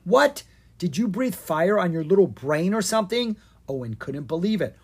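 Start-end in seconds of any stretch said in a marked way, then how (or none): 0.0-3.4 incredulous. Acted. Brother baffled by plan.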